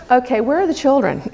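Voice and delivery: laughing through quote. Real, not acted. Laughing while quoting husband.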